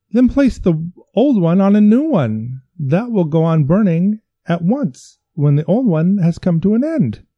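high, loud frantic pleading. Acted. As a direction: beg desperately. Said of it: "pleaded the physician".

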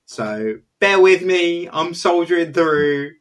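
blocked nose from a cold; nasally, stuffy speech. Real, not acted. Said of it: "if I sound a bit nasally".

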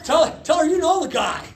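high shouted plea; laughing shout. Real, not acted. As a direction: call it out loud.

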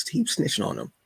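"Keep snitching on them" lifted high, stress on "keep". Shown as a demonstration. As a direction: tease it up high the second time.

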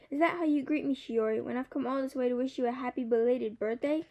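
a hint of a small chirpy bird teasing; gently lifted bird voice, playful; Kiki the bird.

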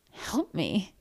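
softly scoffed question; understated scornful disbelief. Acted. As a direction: throw it back with a light scoff. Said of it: "she scoffed".

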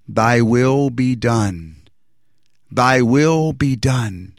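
very slow, solemn voice that feels not his own; otherworldly voice. Retold or imitated. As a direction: let a divine voice speak slowly through you. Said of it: "but wasn't my voice".

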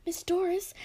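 breathy urgent whisper to the teacher; hushed plea to the teacher. Acted. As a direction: whisper it so no one else hears. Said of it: "I whispered".

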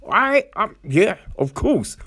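hammed-up excitement, up high; mock eager agreement. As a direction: jump at the offer, pitch rising. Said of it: "He's like".

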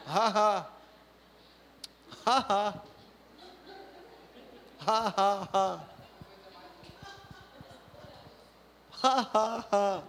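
a deliberate put-on laugh; forced laughter. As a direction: laugh on purpose, by faith. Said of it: "e eu, / rindo". (riso forçado de propósito)

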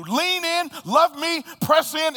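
urgent invitation in Jesus' voice; pleading invitation. Acted. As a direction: lift each short phrase up to them. Preacher voicing Jesus' invitation.

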